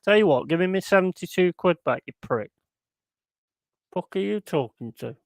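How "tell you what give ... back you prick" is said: mocking retort. Retelling his reply to stream support, scornful and mocking. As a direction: throw the words back with scorn. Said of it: "I just sent back".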